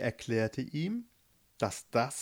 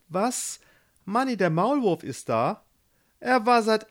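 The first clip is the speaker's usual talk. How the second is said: raised, pleasantly surprised voice; light up at the news; delighted; 8 semitones higher, 4 dB louder than usual. A narrator's reading. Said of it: "Rapunzel freute sich". (freudig überrascht, höher)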